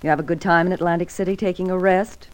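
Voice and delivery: cold repeated accusation. Acted. You heard me.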